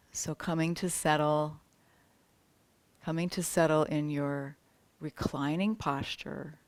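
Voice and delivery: unhurried yoga teacher settling the class; spaced phrases with long, restful pauses; guided meditation. Real, not acted. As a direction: guide them gently toward rest.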